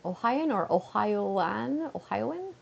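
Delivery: "Ohioan" said slowly as o-HI-an, then o-hi-O-an, rising; trying pronunciations. Shown as a demonstration. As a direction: test both ways of "Ohioan". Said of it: "Partner is Ohioan?".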